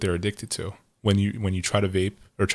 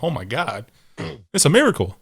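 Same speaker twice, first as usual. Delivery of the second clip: mock awe, rising high and loud; amazed exclamation; 4 semitones higher, 4 dB louder than usual. Recalling first food delivery from across town, amazed. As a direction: marvel as if at a miracle.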